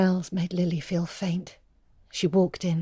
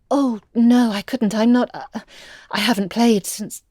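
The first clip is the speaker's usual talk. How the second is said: rising, louder flustered protest; flustered refusal; 3 semitones higher, 5 dB louder than usual. Acted. Lily protests to the waiter, flustered and louder. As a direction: stammer out a startled refusal.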